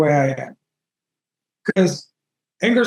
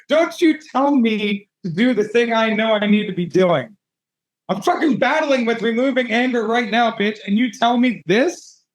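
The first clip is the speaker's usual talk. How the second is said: mildly indignant retort, rising at the end; a touch of outrage, slightly raised pitch; mock indignation; 3 semitones higher than usual. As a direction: act out telling someone off. Acted angry retort to brother's message.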